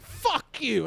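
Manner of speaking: high-pitched retold curse; mock drunk defiance. Drunk woman cursing the comic back, high defiant yell. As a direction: spit back like a drunk heckler.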